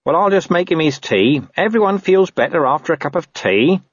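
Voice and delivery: high-pitched, placating underling; smooth things over; squeaky, soothing sidekick; conciliatory corporal. Acted. Narrator voices Nobby.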